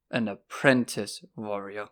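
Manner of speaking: APPRENTICE firmly stressed. A narrator's reading. Will correcting boastful Horace, stress on apprentice. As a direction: hit the word "apprentice" firmly. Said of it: "laying stress on the word apprentice".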